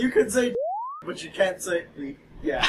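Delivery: giggly prank whisper. Retold or imitated. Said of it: "It's gonna say".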